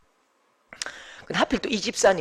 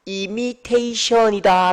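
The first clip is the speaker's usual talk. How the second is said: mock learned word; 3 semitones higher, much slower than usual. Shown as a demonstration. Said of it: "유식한 말은요".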